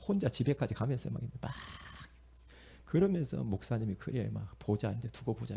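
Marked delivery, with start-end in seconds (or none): 4.0-5.6 soft, resentful muttering; muttered grudge. Acted. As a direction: grumble it under your breath as if to yourself. Sulking churchgoer's grudge in private.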